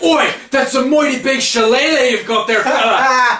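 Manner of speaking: high, loud cartoon Irish brogue; mock Irish accent. Mimicking Sheamus distracted mid-match, hammed-up Irish accent. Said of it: "he's distracted when Boner comes out and he goes".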